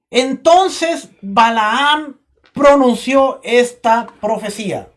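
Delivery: slow, drawn-out reading; slow first read. Shown as a demonstration. Preacher reading slowly to the church, drawn out. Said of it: "Si se lo cambio mejor".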